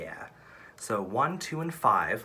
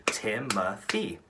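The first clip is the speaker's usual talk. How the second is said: slow syllable demo; much slower than usual. Shown as a demonstration. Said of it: "which is three syllables".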